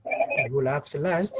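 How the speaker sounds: "He who laughs last" slow, lifting at the end; rising intonation. Shown as a demonstration. Teacher repeating the example's first part, rising intonation. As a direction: draw it out and swing "last" upward. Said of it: "said with a rising intonation".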